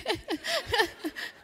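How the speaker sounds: high short laugh-cry. Retold or imitated. Speaker reliving the elevator moment, high laugh. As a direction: let a high laugh burst out.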